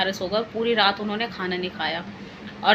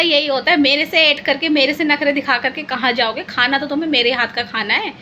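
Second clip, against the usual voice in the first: triumphant teasing scold. Retold or imitated. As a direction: rub it in, playfully scolding. Wife scolding husband, triumphant.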